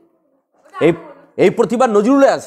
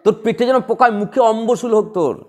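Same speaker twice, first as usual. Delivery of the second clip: mock quarrel curse. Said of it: "আমরা ঝগড়া বলে কি বলি?".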